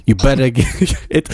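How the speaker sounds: bad Greek accent slipping into Italian, laughing; attempted Greek accent. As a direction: try Greek, land in Italian. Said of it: "It's coming out Italian".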